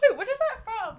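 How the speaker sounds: asked through laughter; laughing. Real, not acted. Laughing while asking her friend where the song is from. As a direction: laugh out the question.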